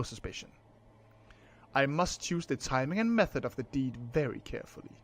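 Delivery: dramatic reading as a scheming heir; lightly voiced gentleman plotting a murder; formal, measured villain monologue; brooding heir narrating. Reads protagonist's monologue in character.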